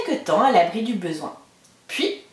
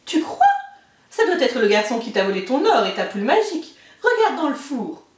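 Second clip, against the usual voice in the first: higher, half-laughing warning voice; the giant's wife hurrying the boy away; ogre's wife warning; 3 semitones higher than usual. Acted. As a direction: shoo the child away with a nervous chuckle. Wife teasing the ogre.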